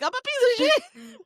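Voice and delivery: high whiny self-pity voice; mock self-pity. Mocking the characters in a high whiny voice. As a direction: whine it like every character does. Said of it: "Everybody's like".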